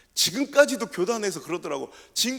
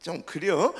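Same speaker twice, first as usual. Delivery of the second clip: Chungcheong hedge; 3 semitones lower, slower than usual. Retold or imitated. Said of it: "가장 간곡한 부정적인 표현이요".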